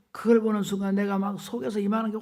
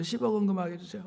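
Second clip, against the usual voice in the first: quick, softer plea through sobbing laughter; tearful plea; 5 dB quieter, faster than usual. Retold or imitated. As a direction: rush the plea out half sobbing. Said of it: "막 울면서". (울음 섞인 빠른 애원)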